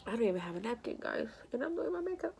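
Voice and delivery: tearful, rising to a high squeak; crying. Real, not acted. Fretting to viewers about tears and makeup, crying. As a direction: voice climbing high through real tears. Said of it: "I'm sick and I'm crying".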